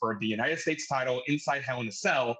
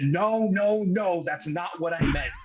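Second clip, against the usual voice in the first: mock Kurt Angle denial, slightly raised and hurried; Kurt Angle panic; 4 semitones higher, slower than usual. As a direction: lightly imitate Kurt Angle insisting he didn't mean it. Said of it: "just like Kurt Angle".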